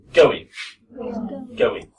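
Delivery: "going" said without a final G; dropped G. Shown as a demonstration. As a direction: drop the G in "going". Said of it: "I don't really say the G here".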